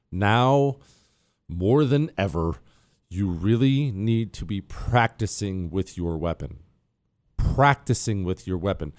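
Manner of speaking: slow, earnest sponsor pitch; sincere ad read for a training device. Acted. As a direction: sell it calmly to the listener.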